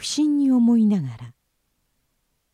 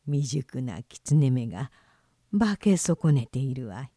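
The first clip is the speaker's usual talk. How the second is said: put-on chuckling old traveller; 6 semitones lower than usual. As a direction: tease the clumsy fox under your breath. Traveller mocks the fox.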